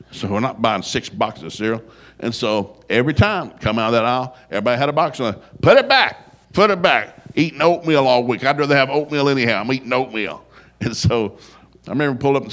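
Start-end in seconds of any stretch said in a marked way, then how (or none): 5.6-7.1 sharp raised voice, put it back; scolding shout. Retold or imitated. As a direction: bark it at the kids grabbing boxes. Dad scolding kids in cereal aisle.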